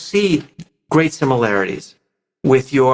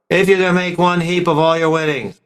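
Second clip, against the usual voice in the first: detached, going-through-the-motions reading; uninvolved reading; 2 semitones higher, faster than usual. Shown as a demonstration. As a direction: say it without caring. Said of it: "Didn't pull me in".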